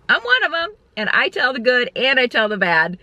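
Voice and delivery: high-pitched, incredulous protest after a laugh; indignant retort. Retold or imitated. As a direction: squeal it in amused self-defence. Laughing at the doctor's YouTuber remark.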